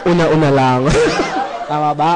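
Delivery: loud laughter between the words; laughing. Real, not acted. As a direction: laugh through the line at the dark joke. Laughing at own joke.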